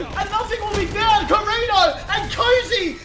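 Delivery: thrilled play-by-play call; excited caster. Real, not acted. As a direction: savor the moment with a laugh. Caster hyped by clutch hold.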